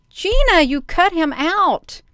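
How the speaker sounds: high sharp call across the room, accusing. Real, not acted. Streamer calls out to Gina for cutting guest, slow accusing call. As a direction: call out to Gina, slowing on the blame. Calling out to someone off screen.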